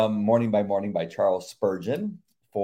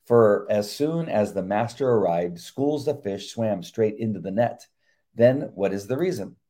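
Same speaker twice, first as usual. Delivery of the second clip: measured earnest sermon reading; devotional reading. Acted. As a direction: read it like a sermon. Reads devotional aloud.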